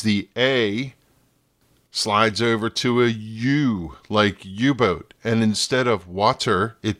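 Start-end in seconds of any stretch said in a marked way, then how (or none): none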